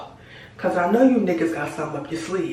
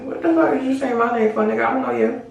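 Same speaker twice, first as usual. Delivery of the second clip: higher, indignant retort; mock confrontation; 5 semitones higher than usual. Telling off a stranger who shouted her name, raised indignant pitch. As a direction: challenge the stranger.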